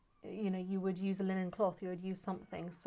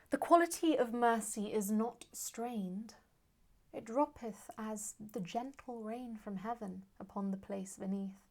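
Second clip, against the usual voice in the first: measured Shakespearean verse, lifted at the opening; declaimed stage verse; verse recitation; 3 semitones higher than usual. Acted. Recites Portia's speech aloud.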